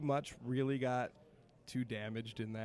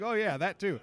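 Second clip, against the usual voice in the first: sheepish; 9 semitones higher, 7 dB louder than usual. Retold or imitated. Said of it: "I'm like".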